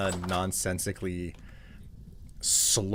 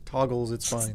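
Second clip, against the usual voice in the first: imitating friend. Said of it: "I just heard you say toggles".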